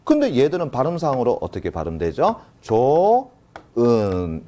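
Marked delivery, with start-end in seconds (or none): 2.6-4.5 조은 said slowly, with no ㅎ sound; 조은 demonstrated slowly, without ㅎ; pronunciation demo. Shown as a demonstration. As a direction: model 조은 slowly as it is actually pronounced. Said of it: "요렇게 발음이 되고요".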